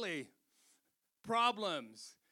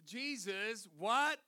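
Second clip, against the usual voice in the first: shocked; 2 semitones higher, 3 dB louder, much slower than usual. Retold or imitated. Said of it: "his sisters are like".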